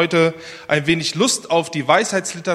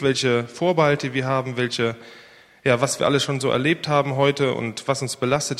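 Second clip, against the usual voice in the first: earnest spoken prayer to the Father. Acted. Pastor praying aloud before the sermon, earnest. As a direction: pray humbly for the church.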